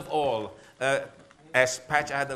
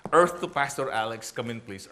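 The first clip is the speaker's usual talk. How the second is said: mock wife calling him back, louder, "Earth to Pastor Alex" as a teasing radio call; 3 semitones lower, 4 dB louder than usual. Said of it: "My wife".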